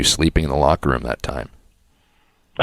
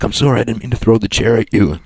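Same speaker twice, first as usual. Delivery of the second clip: slightly raised, apologetic quote; retold apology; 5 semitones higher than usual. Quoting the colleague who threw a chair, mildly apologetic. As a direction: act out a sheepish apology. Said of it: "he starts apologizing to me".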